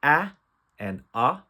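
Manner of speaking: short A then short O, set apart; isolated vowel sounds for a phonics lesson. Shown as a demonstration. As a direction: demonstrate "ah" and "ah" as two distinct short vowels. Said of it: "couple short vowel sounds".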